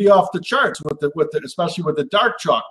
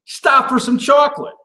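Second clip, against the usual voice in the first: sing-song catchphrase, pitched up high; bright chanted tagline, much higher; 7 semitones higher than usual. Acted. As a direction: toss out the refrain like a jingle. Recurring catchphrase refrain.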